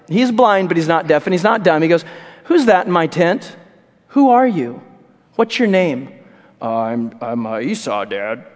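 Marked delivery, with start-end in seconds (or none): 2.4-6.1 a hint of a stern blind father; suspicious father. 6.6-8.4 lower, softer hesitant lie; sheepish fake Esau; nervous lying son. Jacob lying in disguise.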